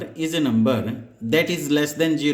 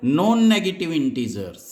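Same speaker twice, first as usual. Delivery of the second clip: "Non-negative" said slowly as the answer; emphatic answer; 3 semitones higher, much slower than usual. Shown as a demonstration. Teacher answering own question, stressing the term. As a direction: land "Non-negative" slow and firm. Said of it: "इनको क्या बोलना पड़ेगा?".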